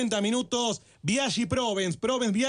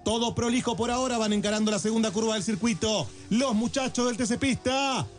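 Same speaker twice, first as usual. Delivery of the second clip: live race call, building at the start; motorsport commentator. Acted.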